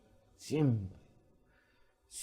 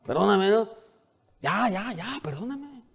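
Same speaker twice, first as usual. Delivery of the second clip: higher, dismissive, fading to a breathy brush-off; mock careless apology; 6 semitones higher than usual. A husband brushing off his wife with a lazy apology. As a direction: toss off the apology like it costs nothing. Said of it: "Somos buenos para pedir perdón".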